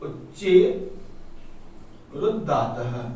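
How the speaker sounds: "उच्चे", a pause, then "रुद्धातः" said separately and deliberately; word by word. Shown as a demonstration. Teacher spelling the sutra "उच्चे रुद्धातः" out for students, word by word. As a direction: break "उच्चे" and "रुद्धातः" apart for the class. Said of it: "कि उच्चे रुद्धातः (first said whole)".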